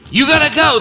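"You gotta go" hammered out at full voice; loud preaching call. Real, not acted. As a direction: shout "You gotta go" from the pulpit. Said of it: "But you gotta go".

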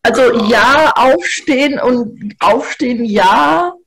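put-on slurred, drunken voice. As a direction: speak like a tipsy mother. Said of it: "wie viel Wein hast du".

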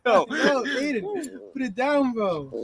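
urgent, rising alarm; alarmed shout. Real, not acted. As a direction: yell at him to stop. Dog held near a knife.

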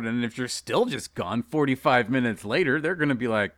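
normal talking voice

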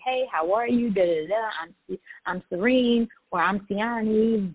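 breezy, friendly introduction put on for show; mock friendly. Introducing herself to people she meets, acting friendly. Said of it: "just be all friendly and say".

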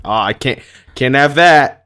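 rising to a high, loud squawk; hammed-up scandalised deity, climbing in pitch; voicing God as shocked and loud; mock outraged God. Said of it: "He's like".

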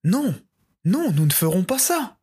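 high, frightened pleading; begging the dragon, voice up high; pleading in tears. Acted. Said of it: "répondirent les villageois en pleurs".

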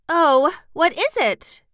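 high, loud, drawn-out question; urgent cry. A narrator's reading. Little girl begging to hear the bad news, crying out. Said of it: "cried Dorothy".

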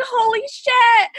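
high, drawn-out cry of disbelief; retold shocked cry. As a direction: stretch it out high, reliving the shock. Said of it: "like, I screamed".

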